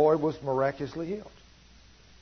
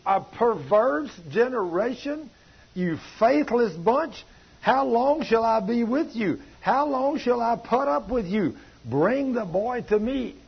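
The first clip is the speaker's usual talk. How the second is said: a little higher and slow, weary scolding; exasperated rebuke; 6 semitones higher, slower than usual. Acted. Jesus scolding the faithless disciples, exasperated and slow. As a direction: sigh it out like a fed-up teacher.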